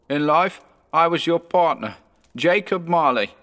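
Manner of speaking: high, hollow ghostly voice. A narrator's reading. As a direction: speak like a lingering spirit. Marley's ghost speaks.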